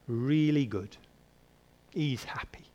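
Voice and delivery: whispered aside, no voice at all. Acted. Preacher whispering to the congregation about Jonah. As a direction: breathe it like a secret. Preacher hushes after describing vine.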